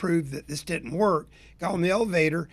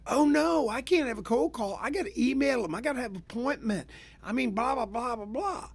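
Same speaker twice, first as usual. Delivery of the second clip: hammed-up panic, higher and trailing softer into blah blah; mock freak-out; 5 semitones higher, 4 dB quieter than usual. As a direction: play a fake meltdown, pitched up and fading. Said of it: "do you think I freaked out and went".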